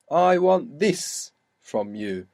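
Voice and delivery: slow, each word laid out, this marked; slow teaching read; slow demo line. Shown as a demonstration. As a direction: spell out the slot of this. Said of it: "this there is in the middle".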